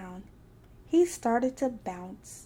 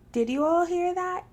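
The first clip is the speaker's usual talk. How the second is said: exclaiming; 7 semitones higher, 4 dB louder than usual. A narrator's reading. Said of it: "cried Rabbit".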